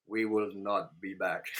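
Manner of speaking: slow, low movie-star voice; a hint of the Terminator, deep and slow; Arnold Schwarzenegger impression. Mock Schwarzenegger line to his co-host. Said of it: "as the good old Arnold Schwarzenegger would always say".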